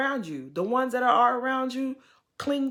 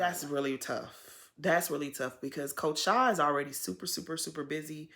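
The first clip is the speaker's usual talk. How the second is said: saddened; 4 semitones lower, 5 dB quieter than usual. Real, not acted. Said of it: "I felt really bad for her".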